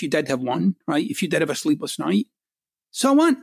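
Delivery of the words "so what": high, louder, dismissive "So what?"; emphatic so what. Real, not acted. Speaker brushing off a listener's excuses, high and emphatic. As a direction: fling out "So what?" with a high scoff.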